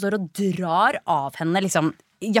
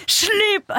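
retold yell; 14 semitones higher, 3 dB louder than usual. Shouting at guards retold.

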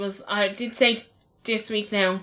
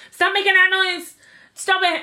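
stern father; 8 semitones higher, 5 dB louder than usual. Retold or imitated. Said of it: "Graham was saying to her".

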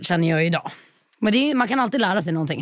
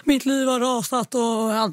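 high, slow, whiny imitation of sobbing; mock crying; 5 semitones higher, much slower than usual. Client pouring her heart out to fortune teller, mock tearful. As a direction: wail it out in exaggerated self-pity. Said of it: "börja gråta".

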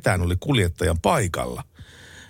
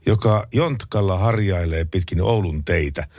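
reading out a text message; 2 semitones higher, slower than usual. Shown as a demonstration. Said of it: "tekstiviesti menee näin".

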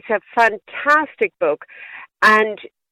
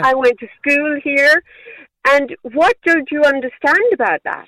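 higher-pitched, exasperated challenge; exasperated retort; 5 semitones higher than usual. Retold or imitated. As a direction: challenge the doubter with raised pitch. Retorting to people doubting her origin.

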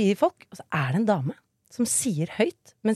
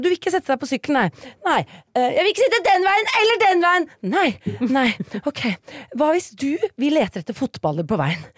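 patient pedagogical mother; 5 semitones higher than usual. Retold or imitated. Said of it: "jeg måtte bare være pedagogisk og være sånn".

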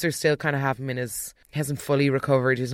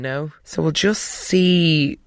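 ordinary delivery

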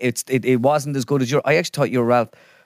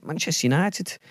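raised, softer imitation of a pundit; practised pundit mimicry; 4 semitones higher, 5 dB quieter than usual. Shown as a demonstration. Practising how a pundit says the club, tentative mimicry. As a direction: try out his way of saying the club name, softly. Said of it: "I do try to practice the, the way he says".

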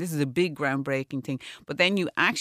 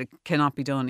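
put-on Spanish accent. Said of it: "He said it in a fantastic Spanish accent".

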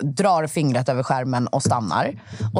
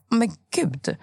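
amazed; 7 semitones higher than usual. Retold or imitated. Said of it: "De bara".

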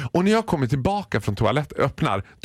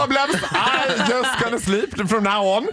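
protesting; 9 semitones higher than usual. Retold or imitated. Protesting to attendant.

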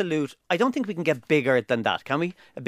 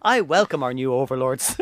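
slow, put-on Russian accent; mock Russian accent; 4 semitones lower than usual. Greeting the new overlords as a joke, mock Russian accent. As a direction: play at a comic Russian accent, drawn out. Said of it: "give me a Russian accent".

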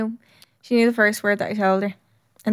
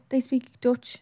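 whispering; 5 dB quieter than usual. Real, not acted. Aside during language chat.

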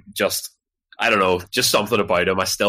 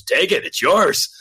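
mock offhand offer; 10 semitones higher, 3 dB louder, slower than usual. Mimicking Lloydie handing over trophy.

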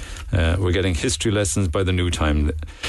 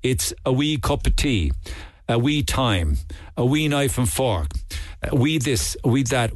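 Northern Irish wee; 2 semitones higher than usual. Shown as a demonstration. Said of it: "putting in the word we".

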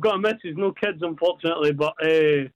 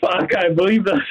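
stunned disbelief; 5 semitones higher, slower than usual. Real, not acted. Winner hears of fifty grand.

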